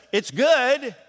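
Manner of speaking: high, thin it's good; weak reply. Shown as a demonstration. Contrasting the weak answer to the cook, high and thin. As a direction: toss off a half-hearted "good". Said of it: "It's not just".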